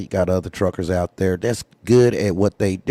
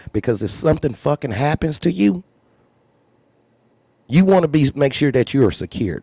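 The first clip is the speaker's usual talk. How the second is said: rising urgent plea; 8 semitones higher than usual. Real, not acted. Heated plea to viewers.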